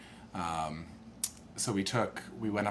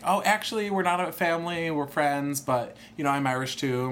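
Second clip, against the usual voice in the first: imitating Maggie; 8 semitones higher, 5 dB louder than usual. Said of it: "was like".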